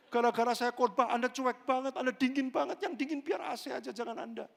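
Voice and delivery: loud, high scolding of a cold congregation; mock scolding. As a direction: scold the room, half joking. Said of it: "Bisa nggak saya ngomong kayak gitu". (memarahi jemaat setengah bercanda)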